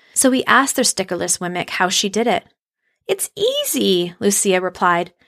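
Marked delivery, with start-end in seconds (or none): 3.1-4.1 whispering. A narrator's reading. Lucia shares her secret gently.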